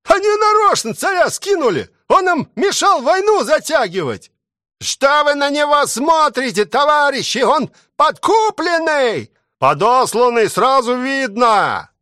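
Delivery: high shouting crowd voices; crowd accusations. A narrator's reading. (солдаты кричат обвинения, высоко)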